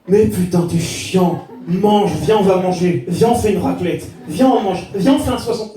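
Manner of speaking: exasperated wife pleading, lightly imitated; lightly voiced wife. Wife begging her dieting husband to eat, mildly exasperated. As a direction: nag and coax in mounting insistence. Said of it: "Ma femme me disait".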